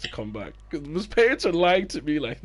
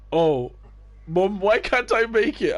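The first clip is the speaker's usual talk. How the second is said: mock kid whining; 7 semitones higher, 5 dB louder, slower than usual. Kid whining to mom on phone.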